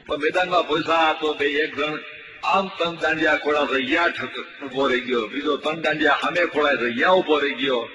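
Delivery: lively mock sports commentary, rising as the game heats up; mock play-by-play. Comedian mocking a village match, commentary voice. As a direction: call the match like a radio commentator, tongue in cheek.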